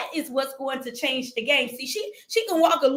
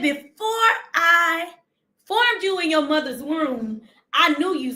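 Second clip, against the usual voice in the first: preaching scripture; 3 semitones higher than usual. Acted.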